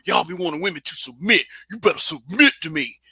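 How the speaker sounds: mock-passionate quote with swinging pitch on "submit"; imitated passion. Retelling a chat man's rant about women, mock-passionate. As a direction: lean hard into "submit", mimicking his fervor. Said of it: "he was saying it with such passion".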